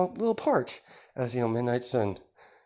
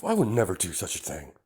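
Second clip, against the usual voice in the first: mock outrage; 4 semitones higher than usual. Villain feigns offence.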